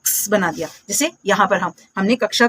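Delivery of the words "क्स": क्स as k running straight into a hiss "ks"; low-pitched blended "ks" for क्स; blended X sound. Shown as a demonstration. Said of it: "इसको क्या बना दिया हमने". (क्स में क और स मिलाकर बोलें)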